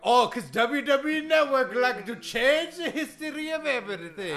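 put-on indignant accented wrestler rant; Iron Sheik. Wrestler disputing history with the host, indignant accented rant. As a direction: complain in broken English. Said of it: "that Iron Sheik impression".

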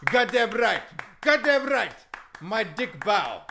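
loud, accented wrestler impression; boisterous broken-English wrestling champ; Iron Sheik. Wrestler guesting on a comedy show, hammy accented boasting. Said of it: "be careful with that Iron Sheik impression".

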